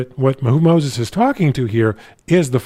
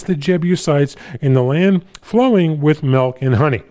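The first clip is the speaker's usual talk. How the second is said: lifted, deliberate Bible-reading voice; raised, emphatic public scripture reading; 3 semitones higher than usual. Acted. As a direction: read the verse out, phrase by phrase. Reads scripture aloud to congregation.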